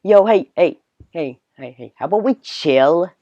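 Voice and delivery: tentative Jersey Shore accent; first stab at a New Jersey accent, drawn out at the end. Shown as a demonstration. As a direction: try out a Jersey bro voice. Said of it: "sounds like the Jersey Shore one".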